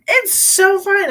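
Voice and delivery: giggling sarcastic reassurance; laughing it's so fine. Real, not acted. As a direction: laugh off the worry.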